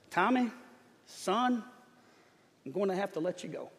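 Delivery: lightly voiced southern coach; southern drawl. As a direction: let them down softly in a southern drawl. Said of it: "southern, uh, drawl".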